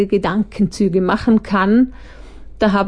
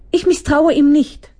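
higher, a touch louder desperate protest; 7 semitones higher, 3 dB louder than usual. Acted. Monsterchen Opfer defends herself, lightly voiced desperation. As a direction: defend yourself in despair. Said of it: "verteidigte sich ... verzweifelt".

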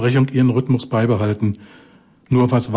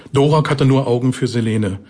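usual speaking voice

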